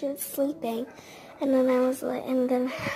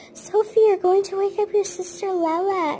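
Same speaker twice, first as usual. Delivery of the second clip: high, louder retold reprimand; urgent warning; 7 semitones higher, 5 dB louder than usual. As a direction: act out an exasperated nanny's warning. Nanny urgently warns tantruming child.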